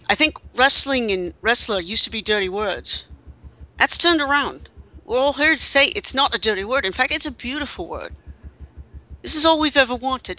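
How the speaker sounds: put-on a light, half-hearted English accent; Neville's English accent. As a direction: read the quote with a faint hint of an English accent. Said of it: "I'll even try to do the accent".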